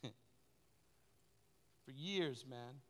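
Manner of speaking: a soft laugh into "years", quiet and drawn out; laughing softly. Real, not acted. Pastor remembering the years of service, laughing quietly. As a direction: chuckle through "for years".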